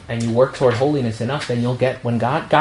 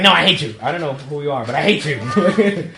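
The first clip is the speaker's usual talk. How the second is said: playful, emphatic rejection; mock hostility. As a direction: reject them with comic spite. Acts a comic hostile phone reply.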